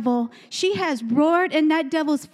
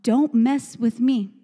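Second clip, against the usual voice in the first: lion's warning; 3 semitones lower than usual. Pretend. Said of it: "That's what the lion is saying".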